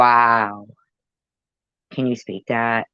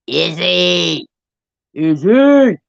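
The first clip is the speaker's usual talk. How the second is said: calling out; 7 semitones higher, 7 dB louder, much slower than usual. Real, not acted. Calling out a contestant's name.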